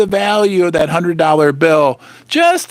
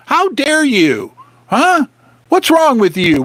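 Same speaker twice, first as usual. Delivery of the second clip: mock indignation. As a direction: scold viewers mockingly, as the Fed would. Mocking the Fed's scolding.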